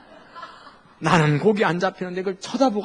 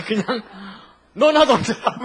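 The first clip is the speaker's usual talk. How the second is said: laughing, higher and louder, a playful snap; mock snappy retort; 5 semitones higher, 5 dB louder, slower than usual. 귀찮은 조언에 대드는 어부 흉내, 웃으며 높고 크게 쏘아붙이듯. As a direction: toss it back like an irritated fisherman, half joking. Retort to Jesus' fishing advice.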